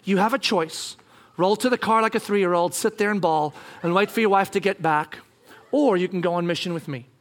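calm, understated counsel; gentle. Retold or imitated. God offering husband a choice, gentle. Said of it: "he just gently says to me".

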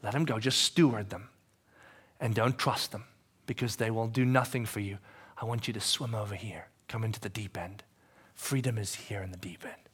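low, soft invitation; gentle Jesus voice. Acted. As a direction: coax them toward the deep end. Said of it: "And Jesus is saying".

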